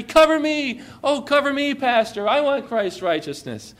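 put-on high pleading child's voice, fading at the end; eager little girl begging; cover me shout. Child Abby pleading to pastor.

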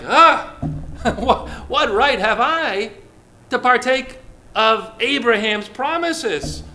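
laughing it off, slowed, half-incredulous; mock indignant laughing protest. To the congregation, voicing a puzzled Gentile, laughing and slowed. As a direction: scoff with a laugh, mock offended. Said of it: "it's like".

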